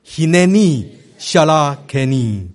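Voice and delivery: "Hineni Shalakeni" said for repeating, late stress; "Hineni Shalakeni", each word stressed toward its end; teaching Hebrew phrase. Shown as a demonstration. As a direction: model "Hineni Shalakeni" for the group, weight on word endings. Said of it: "大家一起来学这句话".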